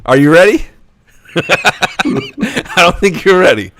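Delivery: a hint of the troll voice, slow, laughing through it; mock troll voice. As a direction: tease them in the troll voice. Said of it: "I'm gonna try to do this voice".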